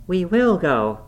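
high, loud insistence; defiant cry. A narrator's reading. Catherine prying at Heathcliff's hand, loud defiant cry. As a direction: cry it out with full determination.

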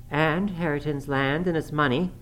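high-pitched, heedless needling; reckless defiance. A narrator's reading. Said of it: "pursued the reckless thing".

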